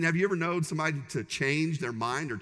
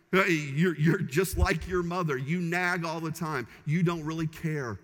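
nagging accusation; 3 dB louder than usual. Shown as a demonstration. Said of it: "Those are you statements".

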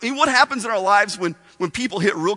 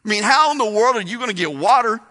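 sarcastic smart aleck. Retold or imitated. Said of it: "She had a little sarcasm. She was being a little smart aleck".

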